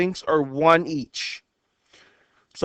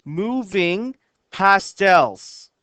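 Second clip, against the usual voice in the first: poem reading; much slower than usual. Shown as a demonstration. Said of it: "It says".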